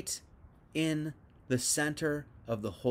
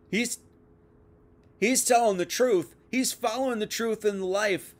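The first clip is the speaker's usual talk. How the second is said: accusing shout; 4 semitones higher, 4 dB louder than usual. Retold or imitated. Accusers voiced in a retold story.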